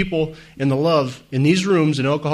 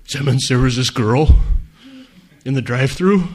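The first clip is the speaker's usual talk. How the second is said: lightly voiced sponsee, a bit louder; a hint of a worried sponsee; mock sponsee asking; 4 dB louder than usual. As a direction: play the sponsee with a silly question. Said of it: "one of them will call with one of the most inane questions".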